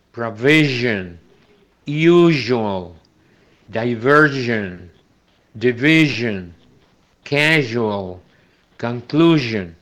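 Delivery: slow, careful English words with the zh sound; teacher reading a word list slowly; English zh sound demo. Shown as a demonstration. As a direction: model each word clearly for students. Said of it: "Entonces, miren".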